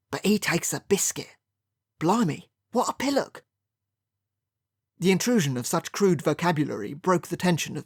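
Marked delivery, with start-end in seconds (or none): 0.1-3.4 guttural East London voice; a rough Cockney laughing jeer; East London accent. A narrator's reading. Letty Young mocking Sinclair from the doorway, in East London accent. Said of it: "alarmingly guttural East London accent".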